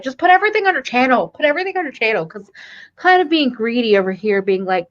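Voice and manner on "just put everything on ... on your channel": eager urging. Retold or imitated. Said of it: "I was the one that was like".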